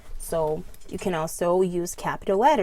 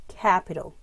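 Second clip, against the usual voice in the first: CAPital with CAP punched; Capital, strong long CAP; stress on first syllable. Shown as a demonstration. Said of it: "the stress syllable".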